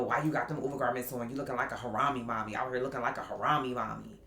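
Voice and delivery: fast, mock nagging put-down; retold scolding. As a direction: imitate a husband rattling off criticism of an outfit. Husband's scolding about her garments retold.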